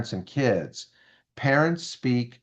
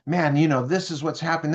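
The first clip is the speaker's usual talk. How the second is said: intelligence person; 5 semitones higher, slower than usual. Retold or imitated. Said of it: "this one person that's intelligence".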